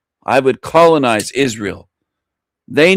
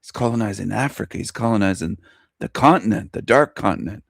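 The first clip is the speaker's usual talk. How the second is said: hushed quote; 3 semitones lower, 5 dB quieter than usual. Retold or imitated. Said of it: "And they'd say".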